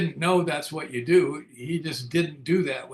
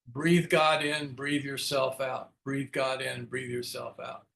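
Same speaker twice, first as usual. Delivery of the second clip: slow guided breathing; slower than usual. Retold or imitated. Sponsor guides a breathing prayer.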